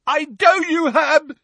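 high, loud furious roar. A narrator's reading. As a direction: roar it in rage. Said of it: "roared Neville".

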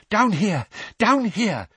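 loud, breathless calls; panting. A narrator's reading. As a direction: shout it while out of breath. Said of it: "panted Mister Weasley".

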